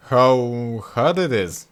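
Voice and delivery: slow, drawn-out remark; pompous brother. Acted. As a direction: stall for words. Second brother tries.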